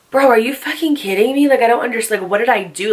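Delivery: retold exasperated protest; a touch of indignant disbelief. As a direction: protest as if baffled by the snub. Retold disbelief at being avoided.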